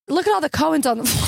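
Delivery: "Cohens" for coins, quick and imitating; mom's pronunciation. Imitating mom spotting coins, "Cohens" in two syllables. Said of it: "She says Cohen".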